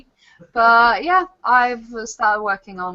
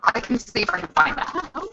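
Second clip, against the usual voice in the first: fast, glitchy Cyberman-like audio; distorted, like a robot on a bad line; 3 semitones higher, 5 dB quieter, faster than usual. Real, not acted. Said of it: "you sound like a Cyberman".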